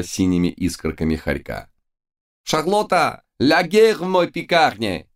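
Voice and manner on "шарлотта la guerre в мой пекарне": very high, despairing French wail; wailing howl. A narrator's reading. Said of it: "взвыл подоспевший Луи".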